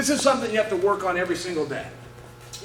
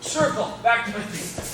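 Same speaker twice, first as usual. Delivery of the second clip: slow, hushed callout of each step; breathy step-by-step drill count; slow drill cue; slower than usual. Shown as a demonstration. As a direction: call the drill steps out slowly like a coach. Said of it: "So I always want to sprawl".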